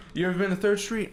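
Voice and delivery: high-pitched imitation Boston accent; bad Boston accent. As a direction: put on a rough attempt at Boston. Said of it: "I can't do a good Boston accent".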